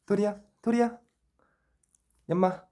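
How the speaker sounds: very high, loud pet-calling voice; talking to a dog. Real, not acted. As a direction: beg the dog to look up. Coaxing the dog to show face.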